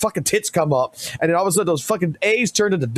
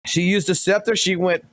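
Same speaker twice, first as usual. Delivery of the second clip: usual speaking voice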